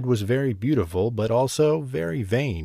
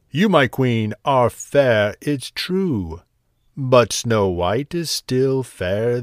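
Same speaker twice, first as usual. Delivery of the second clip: shimmering echoing mirror voice. Acted. Mirror delivers bad news.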